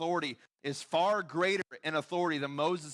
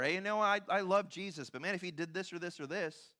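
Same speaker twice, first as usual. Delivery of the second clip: mock hedging Christian; 4 semitones higher than usual. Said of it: "Christians will talk about how awesome God is".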